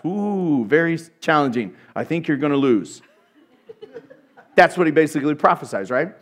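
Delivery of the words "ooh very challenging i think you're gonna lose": mock prophecy. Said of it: "he prophesies".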